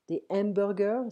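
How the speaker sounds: "hamburgers" said with no H sound, ambur-; "hamburgers" pronounced the French way, no aspirated H; silent H. Shown as a demonstration. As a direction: drop the H in "hamburgers", French style. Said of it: "in French we don't pronounce the H".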